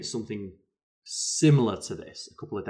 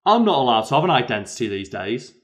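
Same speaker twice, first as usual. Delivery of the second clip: put-on drunk rant; 3 semitones higher, 9 dB louder than usual. Drunk man ranting in pub.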